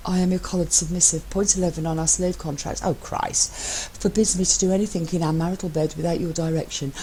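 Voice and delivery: lightly voiced teasing husband; a hint of smug, playful partner; lightly voiced cheeky spouse; Matt's voice. Matt's voice in the reading.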